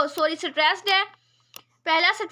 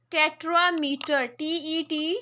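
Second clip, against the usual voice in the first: टेट्रामीटर said slowly, syllable by syllable; slow clear repeat; much slower than usual. Shown as a demonstration. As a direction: spell it out with your voice for students. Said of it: "teacher repeats word slowly". (टेट्रामीटर को धीरे धीरे साफ़ बोलना)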